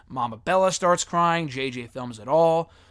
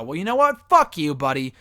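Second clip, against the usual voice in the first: mock angry outburst; 3 dB louder than usual. Real, not acted. Telling off the booing fans.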